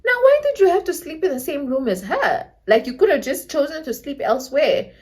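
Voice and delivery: lightly voiced mother picking at his story; imitated questioning mother. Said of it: "Then my mom was like".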